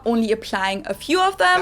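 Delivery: a light touch of German accent; mildly German-accented English; lighter German accent. Shown as a demonstration. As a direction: use just a few German accent features. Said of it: "different degrees of a German accent".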